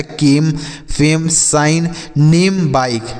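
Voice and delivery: कीम, फेम, साइन, नेम, बाइक with silent final E; one syllable each for कीम, फेम, साइन, नेम, बाइक, ending on the consonant; correct reading. Shown as a demonstration. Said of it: "ऐसे कुछ नहीं पढ़ा जा रहा है ना".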